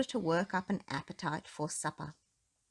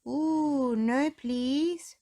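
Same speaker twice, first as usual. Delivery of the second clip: much higher, louder eager yelp; 8 semitones higher, 5 dB louder, much slower than usual. A narrator's reading. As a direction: leap in eagerly, pitched way up. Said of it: "replied Mister Muddle eagerly".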